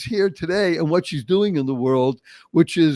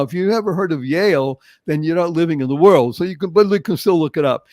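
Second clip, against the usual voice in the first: usual speaking voice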